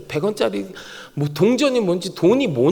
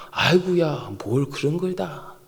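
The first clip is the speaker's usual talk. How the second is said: low, slowing Chungcheong demurral; Chungcheong-style modesty; 4 semitones lower, 5 dB quieter, slower than usual. Acted. God receives a gift, modest Chungcheong-style thanks. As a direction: demur softly, Chungcheong style, trailing slowly. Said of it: "하나님이 충청도 분이신가?".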